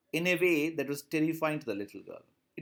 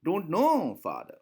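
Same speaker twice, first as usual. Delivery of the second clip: put-on stuttering child; slower than usual. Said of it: "That's what she is doing".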